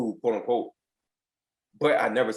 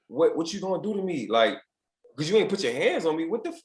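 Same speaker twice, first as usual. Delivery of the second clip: higher, indignant challenge; defiant challenge; 5 semitones higher than usual. Retold or imitated. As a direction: push back at the coach, daring him. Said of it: "I'm like".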